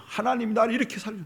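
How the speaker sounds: the freed people proclaiming God's rescue joyfully; joyful testimony. Pretend. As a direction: burst out telling it. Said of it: "만방에 막 노래해요".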